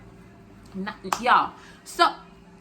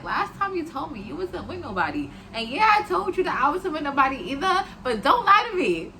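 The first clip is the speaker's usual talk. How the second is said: building anger; 7 semitones higher, 4 dB louder than usual. Retold or imitated. Confronting him about girlfriend call.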